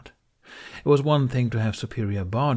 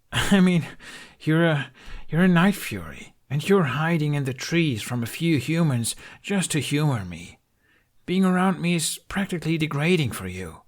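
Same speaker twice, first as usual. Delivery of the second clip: higher, agitated and self-pitying; upset outburst; 8 semitones higher than usual. Acted. Hiccup telling the dragon he drags him down, agitated and higher. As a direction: spill out the frustration.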